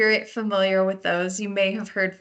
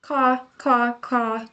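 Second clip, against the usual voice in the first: crow caw; 4 semitones higher, much slower than usual. Shown as a demonstration. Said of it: "think of what American crows say".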